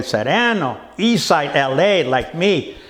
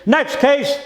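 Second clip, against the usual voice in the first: laughing scream; 8 semitones higher than usual. Acted. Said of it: "laughs and screams".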